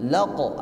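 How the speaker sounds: "laqo" with an abrupt q and short o; jolted qalqalah. Shown as a demonstration. Teacher shows correct form, "laqo" with a jolt. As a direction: bounce quickly off the q in "laqo". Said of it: "ada hentakan".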